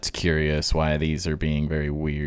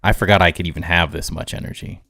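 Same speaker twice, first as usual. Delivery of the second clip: too much caffeine; 4 dB louder, faster than usual. Real, not acted. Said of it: "I'm wired right now".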